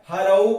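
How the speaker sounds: हरऊ said loud with a clear long औ, not हरो; हरऊ with a loud, drawn-out औ ending; औ sound stressed. Shown as a demonstration. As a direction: lean on the औ in हरऊ. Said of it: "हरऊ, ये ध्यान रखना".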